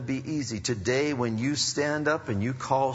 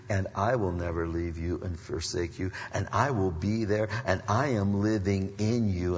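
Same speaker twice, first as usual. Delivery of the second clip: Jesus; 2 semitones lower than usual. Acted. Preacher voicing the Lord promising never to leave, reassuring. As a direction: lightly voice a reassuring Lord, pitched down. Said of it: "Jesus says".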